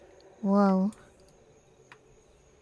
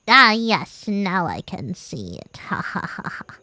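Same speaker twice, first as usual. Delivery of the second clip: whispered creepy laugh; playful spooky voice; 2 semitones lower than usual. Pretend. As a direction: hiss it like a villain.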